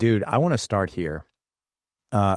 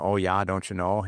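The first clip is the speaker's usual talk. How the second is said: lightly imitated Northern "don't-cha-know" accent; a hint of folksy northern American vowels. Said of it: "you got the Northern".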